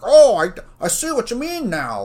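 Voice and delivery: high, loud, mocking voice of the tutor; mock condescending tutor. Mocking the tutor who finally understood. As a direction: sneer it back like he thinks he's smart. Retelling tutor's dismissive reply.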